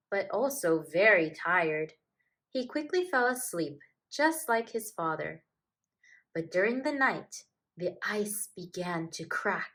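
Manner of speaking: gentle, lively storybook reading; reading to children. A narrator's reading. Narrator reads a polar bear tale to children, gentle storybook voice. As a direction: read it like a bedtime picture book. Reads picture book aloud.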